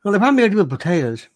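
fast, mildly mimicked cooking-show host; TV cook impression. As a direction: lightly imitate a TV cook's quirky talk. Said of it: "He talks like this".

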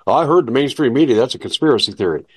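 a touch of put-on nose-wrinkled objection; mock disdain. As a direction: mimic a dismissive objector, rushing the end. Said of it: "wrinkle your nose up and go".

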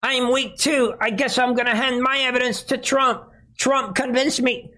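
high, weepy mock confession; mock whiny Giuliani. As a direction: whimper it like a guilty weakling. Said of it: "Giroudi could at the last minute say".

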